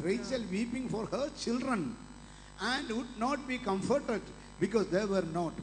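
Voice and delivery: very slow, deliberate reading of scripture; slow verse reading. Shown as a demonstration. Preacher reading the verse aloud to the church, very slowly. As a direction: lay out every word slowly so all can follow.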